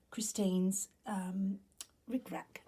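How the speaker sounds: whispery voice cutting out; throat catching mid-phrase. Real, not acted. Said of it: "Excuse me".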